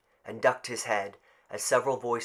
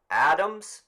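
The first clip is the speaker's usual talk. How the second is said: higher, louder rising call; raised roll call; calling out a name; 7 semitones higher, 9 dB louder than usual. Acted. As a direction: call the name across the crowd.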